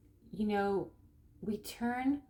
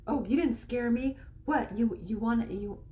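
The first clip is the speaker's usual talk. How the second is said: lightly acted tough-guy challenge; mock aggressive. Guys reacting to the bush prank, mock aggressive. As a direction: imitate a pranked guy squaring up, mildly. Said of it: "react aggressively".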